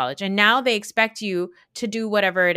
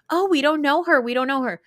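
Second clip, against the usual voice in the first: high, louder mock protest; mocking dismissal; 6 semitones higher, 4 dB louder than usual. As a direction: imitate their dismissive chorus, pitched up. Mocking the cast's dismissive line.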